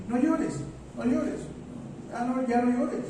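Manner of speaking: soothing. Retold or imitated. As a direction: coax them to stop crying, softly. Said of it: "nuestra tendencia es decir".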